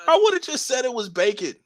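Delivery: high-pitched, fast, energetic YouTuber voice; old YouTuber voice. Shown as a demonstration. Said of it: "I think I could still do my voice like that".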